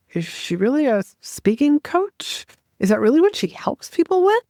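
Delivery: high, quick sceptical questioning; doubtful disbelief. Retold or imitated. Listener doubting the coach, in high, quick disbelief.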